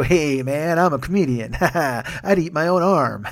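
put-on clowning with forced ha-ha laughs; hammed-up jokey self-introduction; mock goofy comedian. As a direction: imitate a comic laughing off trouble. Imitating a comic clowning desperately.

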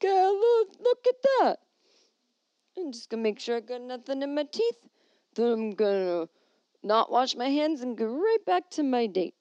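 put-on drunk guy. A drunk man checks his teeth in the urinal mirror, loud and high. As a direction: play a tipsy guy admiring himself, loud and high. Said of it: "they're like".

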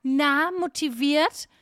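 slow, drawn-out cheesy greeting; mock receptionist, drawling slowly; gym receptionist imitation. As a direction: stretch it into a mock pep question. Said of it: "das hat er zu jedem gesagt".

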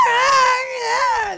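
mock singer yell. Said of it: "that's what it sounds like".

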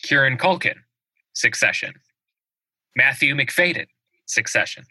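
formal awards-show announcer. Acted. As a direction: read the nominees like a big announcer. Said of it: "That was fantastic announcer voice".

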